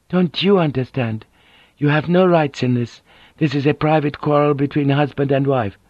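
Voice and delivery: a dignified woman, hurt and firm; proud wounded noblewoman. Acted. Narrator voices Mariko.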